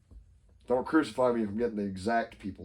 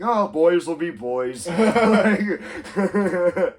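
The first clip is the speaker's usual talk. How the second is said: mock indulgent; 4 semitones higher, 6 dB louder than usual. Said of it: "everyone's like".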